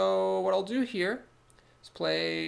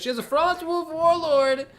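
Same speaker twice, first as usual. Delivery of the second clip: high, loud, slow outburst of surprise; surprised; 13 semitones higher, 8 dB louder than usual. Real, not acted. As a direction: blurt it out in disbelief. Surprise at opponent's card.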